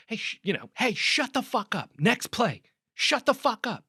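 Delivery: high-pitched mock coach's yell; retold coach's reprimand. Acts out coach yelling at player.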